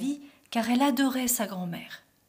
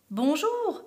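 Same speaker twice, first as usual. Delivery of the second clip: higher, friendly call with a smile; smiling greeting; 7 semitones higher than usual. A narrator's reading. Wolf to the little girl, smiling so as not to scare her. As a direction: greet sweetly so as not to frighten. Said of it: "lança-t-il en souriant pour ne pas l'effrayer".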